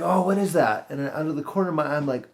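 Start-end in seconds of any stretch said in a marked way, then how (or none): 0.0-0.9 higher-pitched mock surprise; startled wondering. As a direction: act out spotting something odd. Reliving spotting something flying at him.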